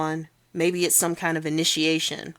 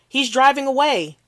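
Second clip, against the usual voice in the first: higher, louder panicked yell; frantic cry to the dispatcher; panicked shout; 8 semitones higher, 7 dB louder than usual. Acted. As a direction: shout it out in alarm. Witness panicking on 911 call.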